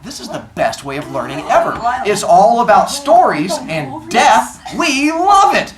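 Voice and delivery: drawn-out, rising delight ending high and loud; delighted kids. Acted. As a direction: gush like thrilled kids, building to the finish. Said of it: "the kids are like".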